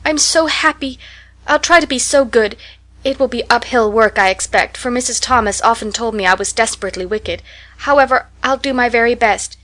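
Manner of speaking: put-on tearful happy child; excited joy. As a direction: spill over with happiness. Anne voiced, tearful joy.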